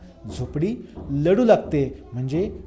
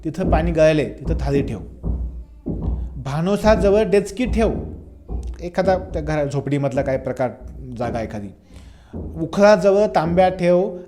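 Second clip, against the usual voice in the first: commanding mother; 2 semitones higher than usual. Retold or imitated. Mother ordering son to place pots under leaks, in a firm commanding call. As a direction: rattle off chores like a mother in charge. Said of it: "order सोडते".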